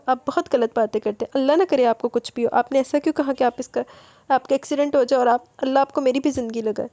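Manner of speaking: a touch of tearful protest; crying. Acted. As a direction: plead through light tears. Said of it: "وہ مزید روتے ہوئے".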